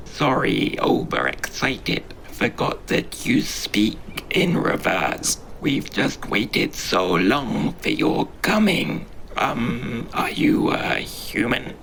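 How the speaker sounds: whispery, squeaky little creature; an overexcited small creature squeaking. Acted. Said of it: "it asks with a squeak".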